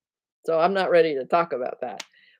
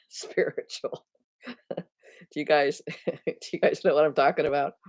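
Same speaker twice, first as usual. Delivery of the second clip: laughing. Real, not acted. Laughs while asking the audience.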